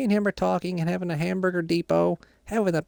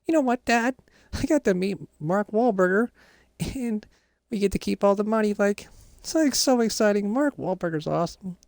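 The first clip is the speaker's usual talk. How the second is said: excited; 4 semitones higher than usual. Real, not acted. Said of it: "I got all the excitement out right now".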